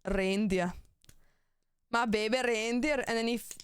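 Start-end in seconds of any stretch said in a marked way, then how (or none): 1.9-3.0 lightly put-on Australian-meets-Scottish accent; muddled mock Australian; attempted Australian accent. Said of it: "my Australian accent".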